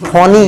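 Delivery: "फोनी" ending in a clear long ee; wrong reading. Shown as a demonstration. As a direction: voice the silent e in "फोनी". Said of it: "हमको ये नहीं पढ़ना है".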